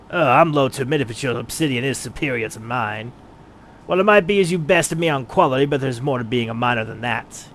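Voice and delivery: gruff rival miner, astonished then grudging; a bristling craftsman who hates losing; proud miner Wide Gully. Acted. Player voices miner Wide Gully conceding to the adventurer, gruff.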